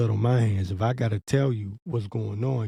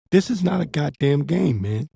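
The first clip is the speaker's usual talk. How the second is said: repeated higher and pressed, hitting goddamn; emphatic warning; 5 semitones higher than usual. Shown as a demonstration. Preacher warning Israelites a second time, higher and emphatic. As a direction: hammer the warning home harder. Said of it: "This is deadly serious".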